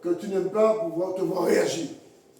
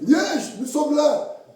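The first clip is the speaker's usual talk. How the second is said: mocking spirits; 6 semitones higher, 5 dB louder than usual. Evil spirits arriving, mocking.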